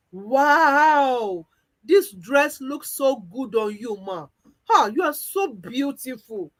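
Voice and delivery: gushing, awed praise; admiring wow. Acted. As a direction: gush over her dress. Assistant admires her boss.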